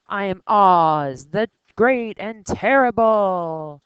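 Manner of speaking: slow, loud, wavering words as if shaking with fear; trembling voice. Shown as a demonstration. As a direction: let the voice quiver on each word, slowly. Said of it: "so it has kind of a fluctuation".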